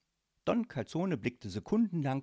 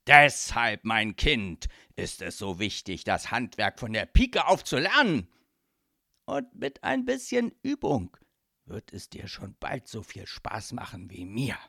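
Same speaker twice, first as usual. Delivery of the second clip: lecturing godfather; 7 dB louder than usual. Acted. Godfather instructs his daughter.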